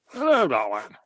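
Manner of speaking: suave greeting. Acted. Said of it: "I wonder how Noel Coward writes".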